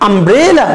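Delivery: "umbrella" with a long, stressed middle syllable; stress on BRE. Shown as a demonstration. Teacher leads students in saying "umbrella", middle syllable stressed. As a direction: swell on the middle of "umbrella", then fall away. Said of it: "এখানে আমরা একটু জোর দিয়ে বলবো".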